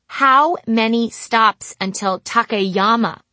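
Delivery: very slow, loud and careful. Acted. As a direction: spell it out slowly and loudly. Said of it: "being careful to speak very slowly and very loudly".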